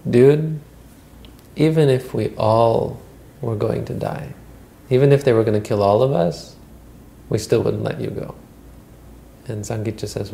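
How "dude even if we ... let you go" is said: loud, insistent protest; emphatic refusal. Acted. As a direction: refuse him outright, loud and firm. Monks refuse to send the boy.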